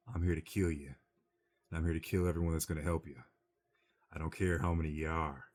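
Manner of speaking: a hint of a low, menacing gunslinger; lightly dropped, steady threat; Clint Eastwood growl. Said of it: "the Clint Eastwood gravelly voice going down".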